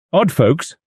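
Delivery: a high, puzzled echo of the words; querying. A narrator's reading. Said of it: "queried Mister Satterthwaite".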